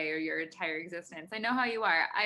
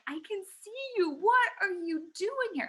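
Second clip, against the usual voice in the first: much higher, fast alarmed cry; freaked-out shout at mouse; 12 semitones higher, 4 dB louder than usual. Retold or imitated. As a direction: yelp it at the intruder, spooked. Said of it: "And I'm like".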